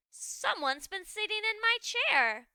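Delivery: loud, indignant ghost father; papa ghost. Acted. Ghost father finds his chair used, indignant. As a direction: boom it out, stress on my.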